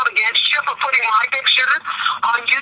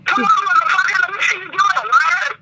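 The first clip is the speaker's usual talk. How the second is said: angry taunt; 5 semitones higher than usual. Real, not acted. Heated phone insult exchange.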